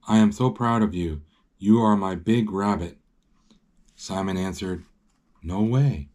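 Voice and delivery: measured read-aloud storytelling; story narration. A narrator's reading. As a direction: read the picture book out clearly.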